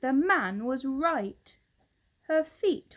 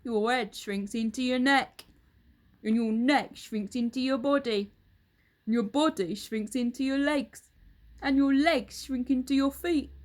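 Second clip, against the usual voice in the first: put-on a louder, gloating old husband; Mr Twit; 3 semitones higher, 5 dB louder than usual. Husband taunts his wife, loud and gloating. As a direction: lean in, relishing the lie.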